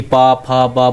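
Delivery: पा, फा, बा said crisply from the lips; lip letters demo. Shown as a demonstration. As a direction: sound out पा, फा, बा one by one for students. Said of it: "जब इनका जब उच्चारण कर रहे हैं".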